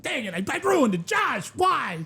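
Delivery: high, comic wail of regret; mock dismay. Imagining himself fumbling the question, mock dismay. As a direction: playfully lament a blown joke.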